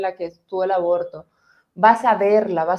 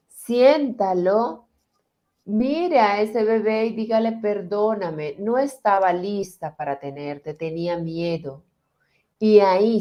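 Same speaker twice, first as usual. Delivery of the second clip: guided visualization. Acted. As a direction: lead them gently into the old pain.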